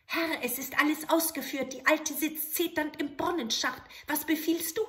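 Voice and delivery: high, eager little goblin voice; bow and ask for orders; little grey man. Acted. Grey manikin appearing to the soldier, eager.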